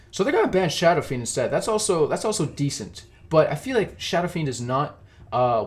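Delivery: usual speaking voice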